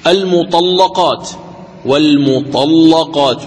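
slow, measured المطلقات with a thick, doubled L; careful tajweed demo, velarized double lam in المطلقات; heavy doubled lam. Shown as a demonstration. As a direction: dwell on the dark "lla" in والمطلقات. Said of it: "حتى إذا كانت اللام مشددة".

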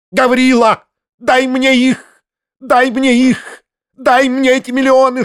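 high, loud, shrill-edged tirade; shrieking rage. A narrator's reading. Foma demanding the money to trample it, shrieking. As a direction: rant in a squealing fury. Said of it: "необыкновенного визга".

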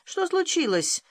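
sudden high alarmed question; startled child. A narrator's reading. Little sister wakes and asks what happened, high and startled. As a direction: jump up in alarm.

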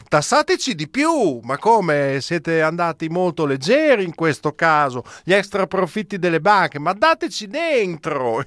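high-pitched ironic imitation of willing taxpayers; mock eager plea. Business lobbies mockingly begging the government to tax them, mock eager.

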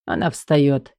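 ordinary delivery

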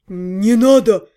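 slow alarmed plea; frightened. A narrator's reading. Half-gnome afraid of her howling, slow alarmed plea. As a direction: beg her to stop, alarmed. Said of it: "испугался полугном".

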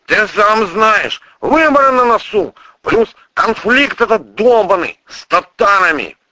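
a worried official pleading his case, loud; prosecutor's voice. Acted. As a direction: prosecutor justifying himself, high and loud. Voiced character dialogue.

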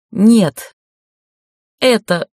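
loud alarmed protest; frightened cry. A narrator's reading. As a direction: cry out in fear, then break off. Dying woman protests.

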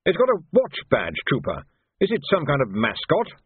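lifted, bemused officer voice; puzzled major. Acted. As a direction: ask in baffled distaste. Major questions trooper.

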